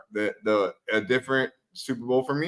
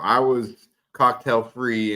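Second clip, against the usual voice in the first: slow, deliberate; 4 semitones lower, much slower than usual. Real, not acted. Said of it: "but, you know".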